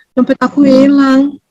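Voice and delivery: slow, sorrowful little lament; sad lament. Retold or imitated. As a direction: mourn the lost wallet slowly. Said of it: "Eh, dia sedih lah". (keluhan sedih yang pelan)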